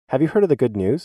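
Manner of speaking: friendly, smiling invitation after a scare; smiling question. Retold or imitated. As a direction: ask it through a wide smile, a touch lifted. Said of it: "Then I smile widely".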